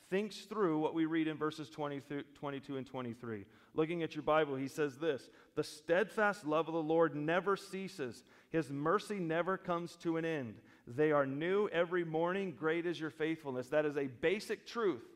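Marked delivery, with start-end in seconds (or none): 5.6-13.7 deliberate, weighty reading; earnest verse with strong key words; emphatic scripture reading. Acted. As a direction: proclaim it firmly as a basic truth. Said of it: "He emphatically brought to mind the basic truth".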